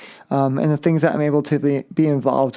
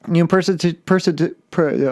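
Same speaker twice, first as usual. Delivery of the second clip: tripping over words with whitening strips in; speech slurred by teeth whitening strips. Real, not acted. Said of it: "oh, I can't even talk".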